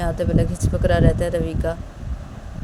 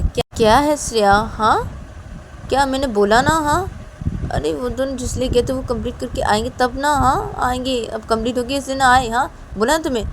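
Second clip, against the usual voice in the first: snippy retort; 5 semitones higher than usual. Acted. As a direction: snap back at her sister. Shruti argues back at Shreya.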